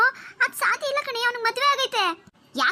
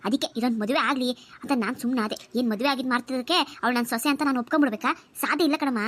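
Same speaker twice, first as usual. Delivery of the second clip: lower-pitched aunt consoling the niece while plotting; a lightly voiced older woman, lower and firm; aunt reassuring her niece, a hint of scheming; 4 semitones lower than usual. Aunt voice plotting against daughter-in-law.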